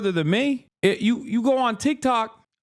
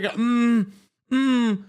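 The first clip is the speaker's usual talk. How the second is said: mock smug hum; 3 semitones higher than usual. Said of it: "their tongue sticking out like".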